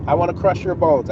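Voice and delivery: calm, even threat without raising the voice. Shown as a demonstration. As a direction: say the threat coolly, no heat. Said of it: "I said that very calm".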